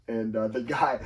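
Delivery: usual speaking voice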